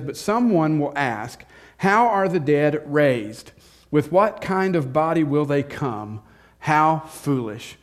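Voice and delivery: slow, measured scripture reading. Acted. Pastor reading Corinthians aloud, slow and measured. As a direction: read the verse deliberately.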